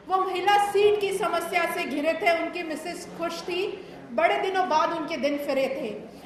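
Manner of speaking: measured delivery of satirical Hindi verse; poem recitation. Acted. Poet telling of netaji and his wife, measured recital. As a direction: recite it line by line, pausing for the audience.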